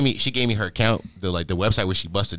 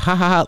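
mock laugh; 6 semitones higher than usual. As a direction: fake laugh, a little higher. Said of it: "they laugh at it".

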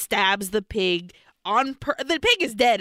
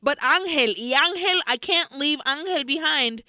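higher, mildly distressed pleading; retold protest; 5 semitones higher than usual. Recapping her refusal to leave Angel behind, retold protest. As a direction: plead in mock distress, voice raised. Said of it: "And she's like".

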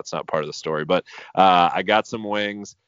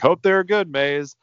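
mock sweet; 9 semitones higher, 7 dB louder than usual. Sarcastic aside to the dog.

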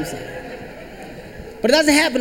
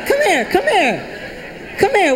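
urgent calling; 8 semitones higher, slower than usual. Acted. Mom calling child urgently.

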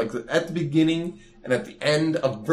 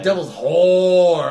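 laughing; 4 semitones higher, 7 dB louder, slower than usual. Real, not acted. Joking dark disclaimer.

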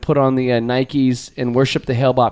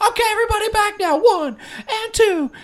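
instructor count. Retold or imitated. Guest imitates Richard resuming the count, high instructor voice. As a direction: bring the class back in like an aerobics coach. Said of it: "was like".

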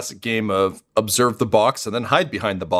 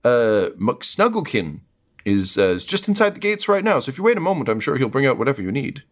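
higher, hesitant, stammering voice; flustered guard; 4 semitones higher than usual. Acted. Guard nervously explaining McSnugglekin is inside. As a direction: fumble the name, nervous to please. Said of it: "the guards are like".

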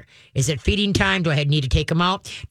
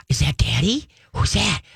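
rising, higher and higher excited owner voice; revving up excitedly; 6 semitones higher than usual. Shown as a demonstration. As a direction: build the dog up, getting more thrilled. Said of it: "Never rev the dog up for the door".

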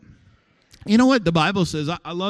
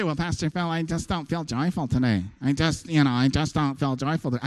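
mopey churchgoer; 4 semitones lower, 5 dB quieter than usual. Pretend. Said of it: "you never used to talk like that".

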